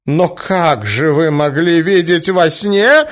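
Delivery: distraught. A narrator's reading. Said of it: "убивалась Марья Александровна".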